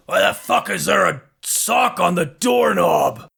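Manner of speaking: raspy, rough, gruff orc monster voice. Game master voices an orc calling out at the door, in orcish voice. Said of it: "as an orcish voice calls out".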